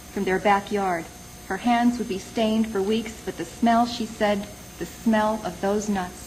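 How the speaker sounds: measured poetry recital with pauses between phrases; poem reading. Acted. Poet reads a poem about visiting two friends to listeners, measured recital.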